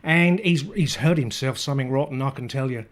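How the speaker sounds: loud, high, hammed-up Aussie on the phone; a bad Australian calling an ambulance, high and loud; bad Australian accent. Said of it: "very bad Australian accent".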